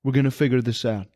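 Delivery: low, slightly quick promise; understated, steadying tone; mild reassurance. Retold or imitated. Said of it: "she goes".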